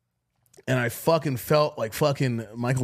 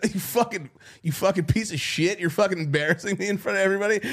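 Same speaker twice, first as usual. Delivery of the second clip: higher, fast, play-angry ranting at a buddy; hammed-up embarrassed outrage; mock rant; 6 semitones higher, faster than usual. Retelling mock insult to Keith.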